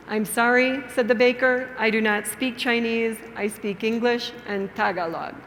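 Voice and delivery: measured storytelling with clear pauses; story for beginners. Shown as a demonstration. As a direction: tell it simply, phrase by phrase, for language learners.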